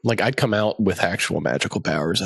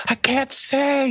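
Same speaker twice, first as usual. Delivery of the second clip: slow squeaky pet; much slower than usual. Pretend. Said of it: "Benny would just be like".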